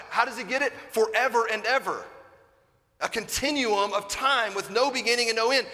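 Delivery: fervent preaching. Acted. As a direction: lift the room, preach it with fire. Preacher rising to full force.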